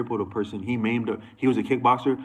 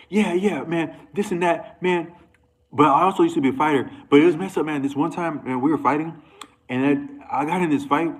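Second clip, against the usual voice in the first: higher-pitched, animated mock bragging; imitated tough-guy classmate; 6 semitones higher than usual. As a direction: mimic a wannabe tough guy telling his story. Mimicking boastful classmate telling fight story.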